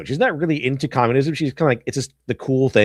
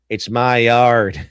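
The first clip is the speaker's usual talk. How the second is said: dumb stubborn yokel; 3 dB louder, much slower than usual. Acted. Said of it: "libertarian right would be".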